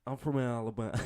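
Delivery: put-on Alabama accent; Southern accent. Shown as a demonstration. Trying an accent he says he can't do, Southern. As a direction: have a go at a Southern American accent. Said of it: "I can't do the Southern accent".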